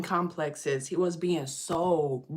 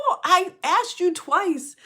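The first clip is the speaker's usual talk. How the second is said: retold scolding; 8 semitones higher, 3 dB louder than usual. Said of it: "I'm like".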